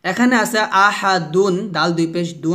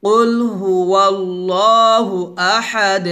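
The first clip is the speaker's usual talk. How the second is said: recitation for repeating; slower than usual. Shown as a demonstration. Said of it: "আবার বলেন".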